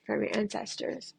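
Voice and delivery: breathy hushed whisper; murmured spirit message. Real, not acted. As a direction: whisper it like a secret from beyond.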